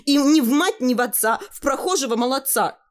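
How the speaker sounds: put-on high teasing girl's rhyme; cheeky girl. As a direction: tease mum with a saying in a high voice. (дерзкая девчонка дразнит маму высоким голосом)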